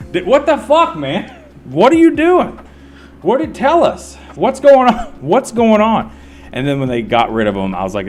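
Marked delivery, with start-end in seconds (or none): 0.1-1.4 high mock yell of rowdy fans; shrill-pitched heckler impression; imitating screaming fans. Imitating hecklers yelling at David. 1.7-6.1 high mock yell of rowdy fans; shrill-pitched heckler impression; imitating screaming fans. Imitating hecklers yelling at David.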